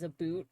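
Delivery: "a boot" with an oo vowel; Nova Scotian "a boot". Shown as a demonstration. Explaining who says it, imitated Nova Scotian "a boot". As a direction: turn the ou into oo: "a boot". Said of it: "area of Canada that says".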